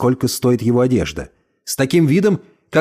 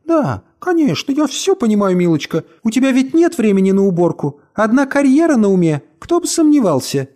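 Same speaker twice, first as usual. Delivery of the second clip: grumbling; 7 semitones higher than usual. A narrator's reading. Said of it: "проворчала".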